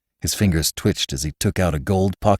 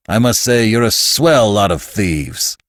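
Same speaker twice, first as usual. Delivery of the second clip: mimicking the fat man; 4 semitones higher, 5 dB louder than usual. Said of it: "mimicking the fat man's throaty purr".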